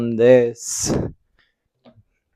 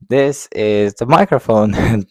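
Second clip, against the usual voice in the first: louder and slow, close on the mic; too close to mic; 5 dB louder than usual. Shown as a demonstration. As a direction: speak right into the microphone. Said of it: "trying to talk in the microphone".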